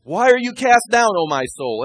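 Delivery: loud, high self-exhortation, pushing the words out; talking to himself. Acted. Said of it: "I have biblical scripture here for talking to myself".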